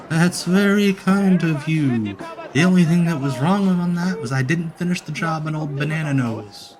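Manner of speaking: a bad take on a grizzled old brawler; awful Terry Funk impression. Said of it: "That's my awful Terry Funk impression".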